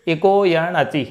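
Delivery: slow chanted इको यण अचि; slow sutra chant; sutra recitation. Shown as a demonstration. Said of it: "जैसे".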